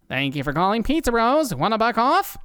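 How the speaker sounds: friendly, cheery phone greeting; eager helper greeting a caller; smile in his voice. Acted. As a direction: answer the phone smiling. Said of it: "with a smile in his voice".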